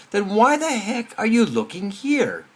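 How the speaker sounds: mildly exasperated, high-pitched policeman; a bit upset. Retold or imitated. Policeman to the man searching in the wrong place, a bit upset. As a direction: retort as a baffled, slightly annoyed cop. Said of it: "is a little bit upset".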